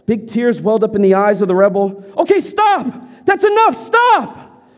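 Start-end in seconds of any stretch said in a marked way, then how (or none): 2.2-4.6 frantic begging. Acted. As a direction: cry out to make it stop. Boy begs principal to stop.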